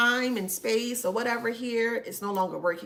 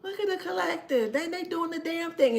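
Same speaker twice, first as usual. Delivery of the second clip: excited; 8 semitones higher than usual. Retold or imitated. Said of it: "And I'm like".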